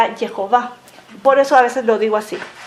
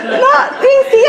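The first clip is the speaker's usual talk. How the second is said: high laughing yes; 12 semitones higher, 3 dB louder than usual. Real, not acted.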